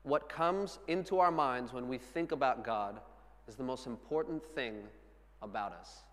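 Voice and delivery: measured, phrase by phrase, with pauses; deliberate repeat. Shown as a demonstration. Same quote repeated for weight.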